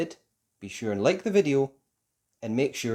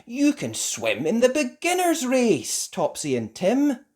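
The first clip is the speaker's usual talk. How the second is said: father's voice; 9 semitones higher, 5 dB louder than usual. A narrator's reading. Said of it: "he said".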